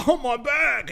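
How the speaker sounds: mock his fake injury; imitating a man's whiny cry of pain. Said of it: "and he's like".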